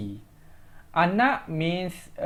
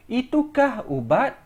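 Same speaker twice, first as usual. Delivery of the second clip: "Itukah" hit higher and stronger; stress on itukah; 6 semitones higher than usual. Shown as a demonstration. Teacher repeating the example to stress itu. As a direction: put the weight on "Itukah". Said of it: "Emphasis on itu".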